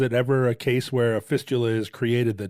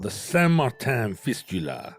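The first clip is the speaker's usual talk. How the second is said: French accent. Shown as a demonstration. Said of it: "a good word to say in French".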